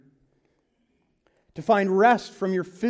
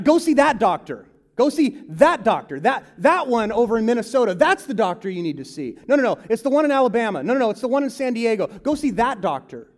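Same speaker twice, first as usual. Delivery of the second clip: mock the people who always know a better doctor; pushy adviser; 3 semitones higher, faster than usual.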